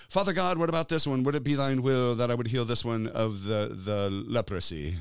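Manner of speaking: a mock pleading voice, quick at first, slowing at the end; a hint of a goofy, fussy pray-er; silly put-on voice. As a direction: make the praying figure sound silly. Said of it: "why he has that kind of a voice".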